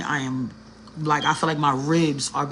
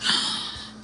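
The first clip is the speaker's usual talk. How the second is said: breathless gasp; 6 dB quieter than usual. Retold or imitated. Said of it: "And I'm out of breath".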